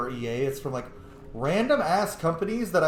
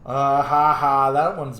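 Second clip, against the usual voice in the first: amused laugh; 6 dB louder, slower than usual. Real, not acted. Laughing at companion's joke.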